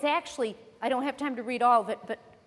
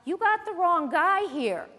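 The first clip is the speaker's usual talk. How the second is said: louder, higher appeal to God; indignant mock complaint, pitched up; imitating Job protesting; 4 semitones higher, 5 dB louder than usual. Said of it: "Job is saying".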